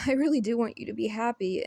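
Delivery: words carried on a nervous laugh; laughing through emotion. Real, not acted. Tearful confession to a friend.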